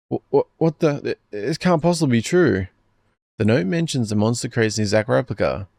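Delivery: put-on a girl learning she may be a clone; panicked Momoka. Momoka reels at the note, voiced in panic.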